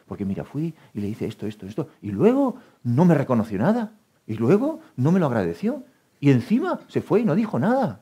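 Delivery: half-hammed indignant rant; mock grievance. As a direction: whine it out as the wronged friend, winding up. Acts aggrieved friend complaining.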